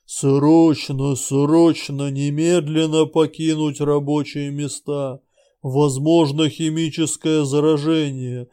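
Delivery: booming loudspeaker announcement; like a dozen megaphones at once; thunderous voice. Acted. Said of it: "громовой голос Обжоры".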